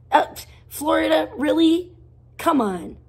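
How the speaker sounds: really? you expect me to buy that; incredulous. Real, not acted. Scoffing at the excuse.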